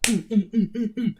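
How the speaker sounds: high, clenched mm sounds; hammed-up tased groans; mock tased grunts. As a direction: mimic bodies jerking from a taser. Mimicking people being tased.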